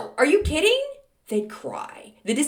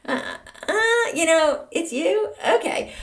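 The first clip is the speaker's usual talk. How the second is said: mock disappointed fan; 8 semitones higher, slower than usual.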